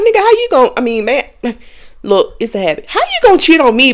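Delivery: indignant. Retold or imitated. Retold confrontation with ex.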